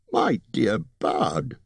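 高めの声でゆっくり、きしむように; 慌ててなだめるホビットの甲高い声; squeaking. Acted. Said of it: "squeaked Bilbo".

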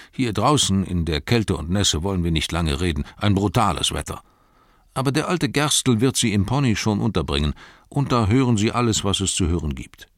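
lightly voiced gatekeeper, brisk and friendly; chatty doorman out in the rain. Gatekeeper greeting Gandalf and hobbits, lightly voiced chat. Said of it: "sagte er".

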